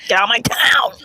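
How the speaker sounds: menacing unvoiced whisper. Whispered threatening note.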